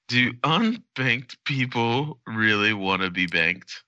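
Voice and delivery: slow, mock-earnest banker question; investor's voice. Mocking a banker to cohosts, slow and self-serving. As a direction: play a guy guarding his investment, slowly. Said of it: "talk like someone who's protecting his investment".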